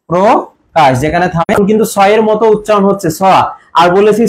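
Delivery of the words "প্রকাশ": প্রকাশ split as "pro-kash"; teacher's two-syllable demo of প্রকাশ; o after pr. Shown as a demonstration. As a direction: sound out প্রকাশ with a clear o in "pro". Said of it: "ওকার হবে".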